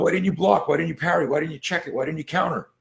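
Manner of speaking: high-pitched string of incredulous questions; retold exasperation. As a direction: pepper the student with questions. Coach fires exasperated retold questions.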